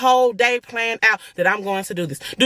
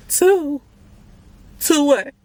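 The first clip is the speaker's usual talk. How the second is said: stunned disbelief; 7 semitones higher, much slower than usual. Retold or imitated. Hearing about twins from the ultrasound tech, stunned disbelief. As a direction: react as if hit with the news, pitched way up.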